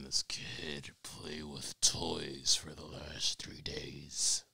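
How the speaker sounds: low, slow demonic rasp with whispered ending. Acted. Dad venting about the toddler, in a slow low demon voice. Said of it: "That was my fucking demon voice".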